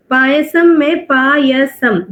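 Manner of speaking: "payasam" said slowly, pa-ya-sam, each part apart; split into syllables. Shown as a demonstration. Teacher slowly breaking "payasam" into syllables for students. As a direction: stretch "payasam" so the three parts show. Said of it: "there are three parts".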